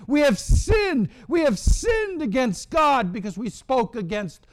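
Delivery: desperate repentance. Acted. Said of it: "They come to their senses in verse seven".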